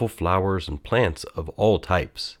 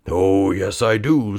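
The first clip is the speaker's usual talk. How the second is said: indignant; 4 dB louder, slower than usual. A narrator's reading. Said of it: "said the guard indignantly".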